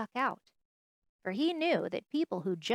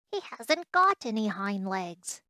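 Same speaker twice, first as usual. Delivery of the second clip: a mild, raised call; 4 dB louder than usual. Acted. Wild rabbit tells the others about the toy, calling out. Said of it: "he called out".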